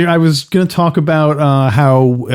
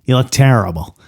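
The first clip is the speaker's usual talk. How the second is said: George W. doing Don Corleone. Pretend. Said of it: "try to do George W. doing, uh, Don Corleone".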